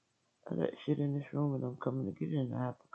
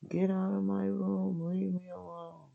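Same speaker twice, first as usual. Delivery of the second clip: high, louder mock yell of husband; husband's yell; 8 semitones higher, 3 dB louder than usual. Husband ordering wife out of his room, high mock yell. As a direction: ham up his shouting.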